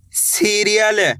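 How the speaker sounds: सीरियल said slowly, every syllable spaced: सी-रि-यल; सीरियल stretched out, syllable by syllable; slow careful reading. Shown as a demonstration. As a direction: read सीरियल slowly for a beginner. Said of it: "कैसे पढ़ेंगे?".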